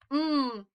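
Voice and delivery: M as a hummed "mmm"; letter sound. Shown as a demonstration. Teacher sounding out the next letter, M hummed "mmm". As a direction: hold M on closed lips. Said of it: "the letter that makes the M sound".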